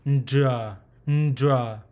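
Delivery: "ndra" as N, D, R run together; N-D-R blend. Shown as a demonstration. Teacher spelling out the sound, demonstrated NDR pronunciation. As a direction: lead into "ndra" with a nasal N. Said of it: "the letter N D R".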